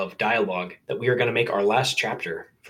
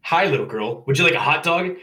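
chirpy vendor, rising high on the question; friendly sales greeting, pitched up at the end; cheerful vendor; 7 semitones higher, 3 dB louder than usual. A narrator's reading. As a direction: sing out the offer cheerfully. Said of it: "said in a cheerful voice".

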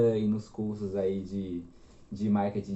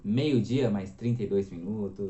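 lightly voiced radio host, smooth delivery; a hint of a velvety news anchor; radio news announcer voice. Shown as a demonstration. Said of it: "voz de radialista de jornal".

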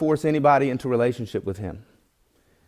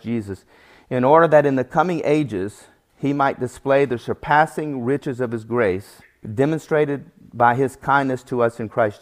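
scripture reading. Acted. Preacher reading Paul's letter to the congregation, solemn. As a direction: read the verses with weight.

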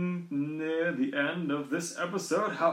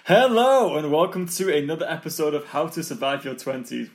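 energetic intro; 7 dB louder than usual. Real, not acted. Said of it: "trying to give energy and enthusiasm".

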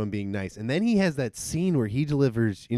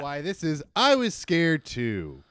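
announcer voice; 3 semitones higher than usual. Acted. Announcer intro.

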